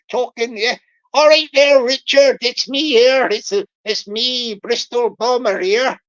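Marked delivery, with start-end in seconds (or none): 1.1-6.0 louder, hammed-up scammer greeting; Bristol Bomber voice. Scammer calling Richard to say it's him, hammed-up and loud. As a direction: boom a chummy hello as the Bristol scammer. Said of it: "this is him talking".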